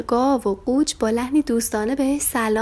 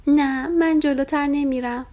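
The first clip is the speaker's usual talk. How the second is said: higher, slow, scared little lamb; frightened lamb; 6 semitones higher, 3 dB louder, slower than usual. A narrator's reading. Lamb Farfari refuses to walk toward the cow, high and scared. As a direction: dig in and refuse, small and scared.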